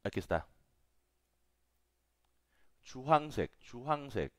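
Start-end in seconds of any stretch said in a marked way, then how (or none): 2.8-4.3 Chuhangsek said with a ch sound, chu-hang-sek; teacher says Chuhangsek clearly with ch; model pronunciation. Shown as a demonstration. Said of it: "Aquí vamos a poner esta, Chuhangsek".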